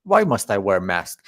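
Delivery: feigned confusion at the label; mock surprise. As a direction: play the baffled pilot who can't read English. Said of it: "I say".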